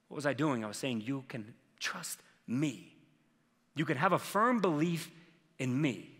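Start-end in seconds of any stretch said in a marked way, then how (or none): 1.0-6.1 quiet reassurance. Retold or imitated. Father to his crying daughter, quiet reassurance. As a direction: reassure gently, leaving space between phrases.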